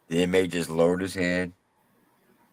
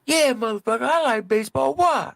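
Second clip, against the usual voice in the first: much higher, squeaky hostile bravado; aggressive high-voiced tough guy. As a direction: private snarling at the inmate. Private cussing at inmate.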